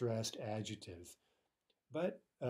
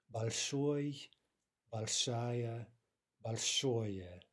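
"Большой, большая, большое", each stressed on its ending; much slower than usual. Shown as a demonstration. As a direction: model each form, weight on -ой, -ая, -ое. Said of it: "stress on the ending".

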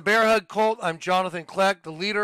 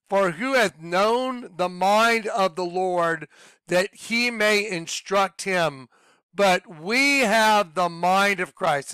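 slow scripture reading; slower than usual. Acted. Reads scripture aloud.

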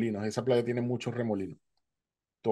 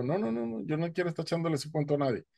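much higher, fast, protesting no no no; higher, quicker mock protest refusing the friend; emphatic refusal; 4 semitones higher, 4 dB quieter, faster than usual. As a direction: wave the idea off, higher and quicker.

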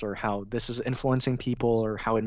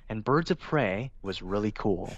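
news reporter voice. Shown as a demonstration. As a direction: read it like a serious newscaster. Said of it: "like a news reporter voice".

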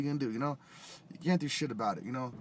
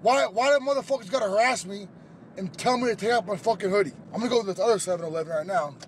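real angry rant, raised and higher; mad; 7 semitones higher, 5 dB louder than usual. Real, not acted. Angry man ranting about being told to remove his hoodie, mad. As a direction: vent loudly, indignant at being refused. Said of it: "I'm so fucking mad".

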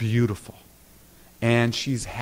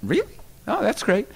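high, gushing surprise at the good news; mock gushing excitement; 12 semitones higher, 4 dB quieter than usual. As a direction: gush like an eager new director, pitched well up. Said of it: "I said".

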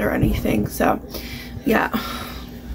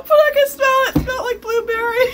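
laughing; 13 semitones higher, faster than usual. Real, not acted. Laughing about blueberry scent.

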